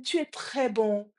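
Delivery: slow, deliberate statement; father's call. Retold or imitated. Father offers the echo praise, slow and deliberate. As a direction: say it slowly for the echo to repeat. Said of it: "le père dit".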